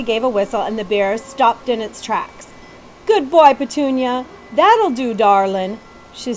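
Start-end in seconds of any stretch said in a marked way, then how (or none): 3.1-5.8 put-on bright, loud country girl voice; Betsy character voice. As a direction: call out fondly to the bear.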